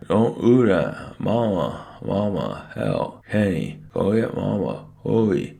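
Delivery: loud, high, drawn-out wail; muffled frantic wail. A narrator's reading. Stuck boy sends his brother for Mama, muffled frantic wail.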